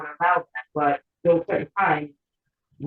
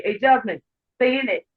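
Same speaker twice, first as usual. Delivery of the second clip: higher-pitched mock attempt at British slang; imitated British slang; 5 semitones higher than usual. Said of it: "they'll try to speak the slang".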